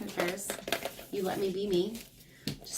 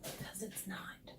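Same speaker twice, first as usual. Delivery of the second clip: whisper; 17 dB quieter, slower than usual. Acted. Whispered deadpan punchline.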